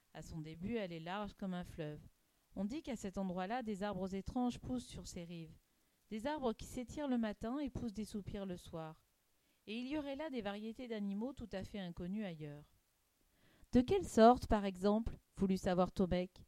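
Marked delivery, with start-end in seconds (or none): 0.1-12.6 softly told tale of wonders; hushed storytelling. Acted. Hicham describing the mysterious river to Tomek, hushed. 13.7-15.2 loud, raised burst of curiosity; eager question. Acted. Tomek wanting to know about strange animals, eager.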